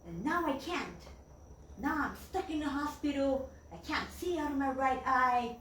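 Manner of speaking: a touch of grumpy protest; grumpy old man. Retold or imitated. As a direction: air your grievances like an upset patient. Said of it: "he grumpily said".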